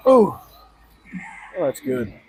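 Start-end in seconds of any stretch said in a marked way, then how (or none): 0.1-0.4 effort grunt. Real, not acted. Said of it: "Sorry for the grunting sounds".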